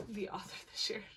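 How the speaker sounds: unvoiced whispered aside. Real, not acted. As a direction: whisper it like a secret.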